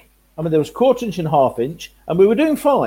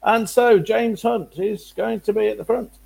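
slow, raised commentator call; race commentator; 6 semitones higher, slower than usual. Retold or imitated. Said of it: "start on our Murrayisms".

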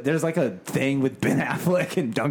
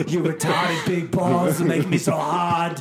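hammed-up sexy talk; much slower than usual. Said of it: "Too much".

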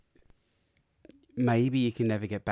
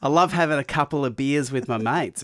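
put-on Australian kid voice, a bit raised; kid's Australian accent; 4 semitones higher, 4 dB louder than usual. Host imitating a pupil with an Australian accent. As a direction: play a child in a broad Australian accent. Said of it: "kids go".

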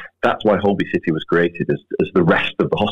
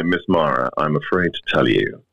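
sinister doctor voice; 5 semitones lower than usual. Pretend. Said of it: "tell me in a very sinister doctor voice".

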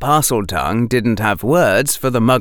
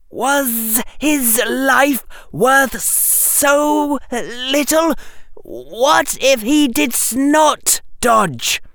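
high, slow, forceful serpent voice; a furious snake lectures a fool; 11 semitones higher, slower than usual. Acted.

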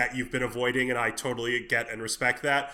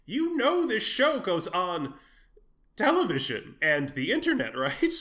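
incredulous; 5 semitones higher than usual. Retold or imitated. Incredulous retort to queens.

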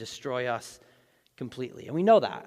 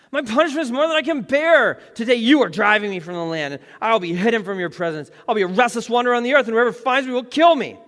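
much higher and louder, protesting; loud complaint; 7 semitones higher, 10 dB louder than usual. Acted. Cain protesting his punishment to God, loud and high. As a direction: cry out that it's too much to bear.

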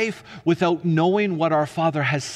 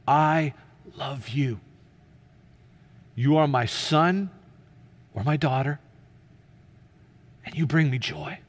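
still small voice. Acted. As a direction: speak gently as a loving father. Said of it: "what that still small voice says".

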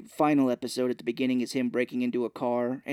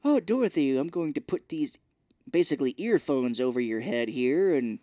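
pitched-up, chatty mock doctor; imitated doctor; 4 semitones higher than usual. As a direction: breezily explain the procedure as the doctor. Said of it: "he's like".

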